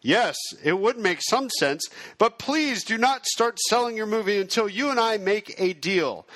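lightly acted, insistent sales pitch; aggregator salesman. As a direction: play a pushy distributor, a little hammed-up. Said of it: "I will play the video on demand aggregator".

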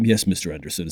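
low, calm, unhurried badass voice; lightly voiced stoic warrior, understated; a hint of cool movie hero; calm Teal'c impression. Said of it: "kind of calm and just".

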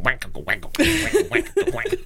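wah-wah guitar noises by mouth, breaking into laughter; twangy vocal guitar lick; imitated guitar riff. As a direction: mouth a cheesy porn-soundtrack guitar. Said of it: "have guitar going".

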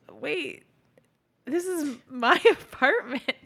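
high and breaking into a laugh; mock outrage cracking up; laughing through a pretend objection; laughing protest.

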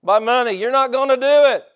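high, loud, defiant shout; yelling at the devil. Retold or imitated. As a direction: yell it as a retold outburst of defiance. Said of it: "and I started yelling".

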